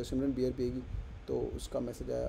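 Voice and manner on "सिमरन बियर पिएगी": Simran, beer पिएगी asked softly and sweetly; lovingly asked. Shown as a demonstration. Teacher showing how he asked Simran, soft and sweet. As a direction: ask it gently, with affection. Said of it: "प्यार से पूछा".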